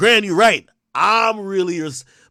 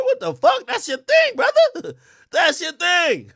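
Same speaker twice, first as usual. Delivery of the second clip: laughing; 8 semitones higher than usual. Real, not acted. Laughing teasing of Joe.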